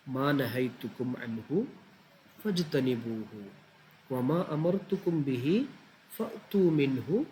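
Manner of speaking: slow Arabic recitation broken into short chunks; slow, cut phrase by phrase. Shown as a demonstration. Teacher demonstrating how to memorise a hadith in chunks. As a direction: recite it piece by piece, pausing between phrases. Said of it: "കണ്ടോ, അങ്ങനെ cut ചെയ്യുക".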